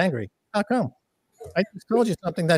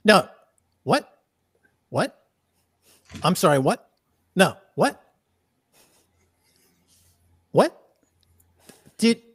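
fake outrage demo. Shown as a demonstration. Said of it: "you have to do a fake outrage".

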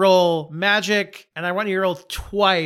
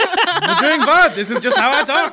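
high, loud, laughing vampire; indignant Transylvanian vampire, much higher; vampire accent; 10 semitones higher, 7 dB louder than usual. Acted. Francis defending how he talks, high hammed-up vampire accent. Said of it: "He also got vampire fangs".

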